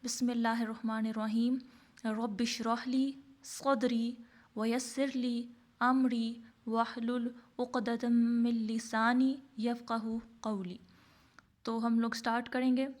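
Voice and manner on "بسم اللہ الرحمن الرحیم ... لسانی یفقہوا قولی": slow, measured recital of the opening prayer; prayer recitation. Real, not acted. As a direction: recite the dua slowly and devoutly.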